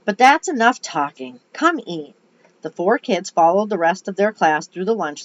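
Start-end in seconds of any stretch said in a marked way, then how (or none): 0.0-2.2 put-on Southern lady calling children to eat, louder at first; higher, louder opening in mild Southern voice; southern accent. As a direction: shoo them along with a light Southern US accent. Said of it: "I gave her a southern accent".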